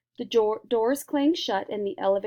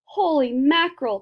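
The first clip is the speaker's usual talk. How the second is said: higher, louder exclamation; surprised cry; 5 semitones higher, 7 dB louder than usual. A narrator's reading. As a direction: exclaim in shock. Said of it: "cried Mike T V".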